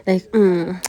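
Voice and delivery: appreciative "mm", imitating her; cute little mimicked hum of enjoyment; imitated food hum. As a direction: hum "mm" like savouring a bite. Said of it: "she makes this sound, which is so cute".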